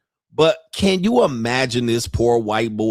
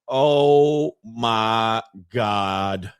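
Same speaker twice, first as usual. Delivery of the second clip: very slow, drawn-out lower groan of disbelief; mock exasperation; 5 semitones lower, much slower than usual. Reactor voices the man hearing her complaint, mock exasperation. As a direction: stretch every word out, utterly fed up.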